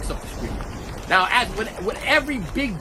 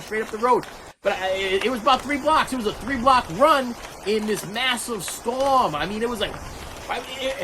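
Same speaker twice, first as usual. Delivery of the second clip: usual speaking voice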